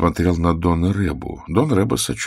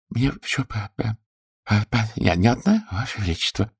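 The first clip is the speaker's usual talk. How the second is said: stammering mutter; 4 semitones higher than usual. A narrator's reading. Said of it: "пробормотал лекарь".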